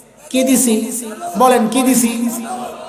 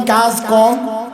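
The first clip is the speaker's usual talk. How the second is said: slow repetition; slower than usual. Shown as a demonstration. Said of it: "আগে পড়লাম কি?".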